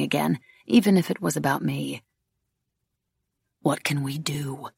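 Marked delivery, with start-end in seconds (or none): 3.6-4.7 softly voiced, slow worry; hushed, anxious question. A narrator's reading. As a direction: ask it quietly, with mild anxiety. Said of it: "Ansel said anxiously".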